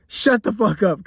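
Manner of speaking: plain firm snap at full voice; shut up. Acted. Annoyed vlogger snapping at imagined commenters, firm. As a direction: say it straight at the viewer. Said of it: "'cause I know somebody's thinking that right now".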